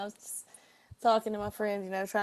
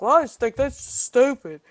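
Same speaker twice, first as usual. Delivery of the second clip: louder dismissive stranger's voice; redneck retort; 4 semitones higher, 11 dB louder than usual. Retold or imitated. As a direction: brush it off like the stubborn redneck. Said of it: "And he was like".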